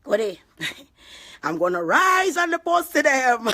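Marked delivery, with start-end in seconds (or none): 1.4-3.5 raised, slow defiant boast. Real, not acted. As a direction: lift it up and taunt them. Defiant live rant.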